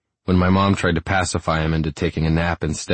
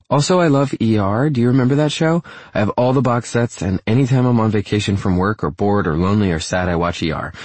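put-on higher, eager young woman; excited young woman; 4 semitones higher than usual. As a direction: gush about a favorite show. Female character, excited about show.

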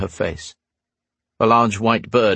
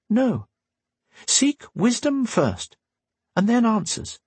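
slow, higher sage-like voice; lightly voiced old teacher, slow; wise old woman; 13 semitones higher, slower than usual. A narrator's reading. Windy giving slow advice.

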